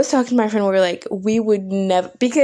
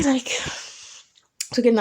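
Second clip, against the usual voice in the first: whisper; 3 semitones higher, 4 dB quieter, slower than usual. Real, not acted. Muttered aside.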